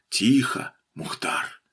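whispered hush to a dog. A narrator's reading. Handler quiets his growling dog near the hiding man, whispered. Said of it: "Еле слышное рычание вырвалось из собачьей глотки".

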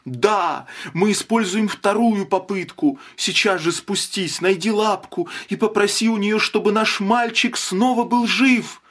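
high, rising, urgent pleading; desperate plea. A narrator's reading. Mother desperately urges husband to wish their son alive. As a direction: beg him, voice climbing with each clause.

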